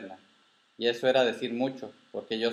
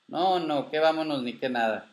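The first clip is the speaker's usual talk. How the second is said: emphatic refusal; 5 semitones higher than usual. Acted. Grandfather refuses plea to go home.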